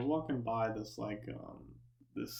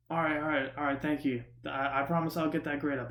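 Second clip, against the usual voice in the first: lightly raised voice promising mom; mock calling out; 4 semitones higher than usual. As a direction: imitate a kid giving in to a parent. Imitates friend answering absent mom.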